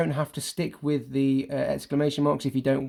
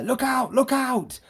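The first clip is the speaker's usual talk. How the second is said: high called warning; a boy warning everyone to run; alarmed warning; 11 semitones higher, slower than usual. Acted. Acting character's warning line.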